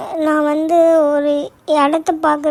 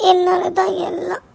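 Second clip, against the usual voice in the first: sobbing outburst; 4 dB quieter than usual. Acted. She blames herself, crying.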